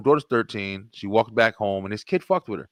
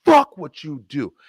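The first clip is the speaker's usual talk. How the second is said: put-on old angry self; 10 semitones higher than usual. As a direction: act out the old hothead picking a fight. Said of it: "like I used to would have handled that situation".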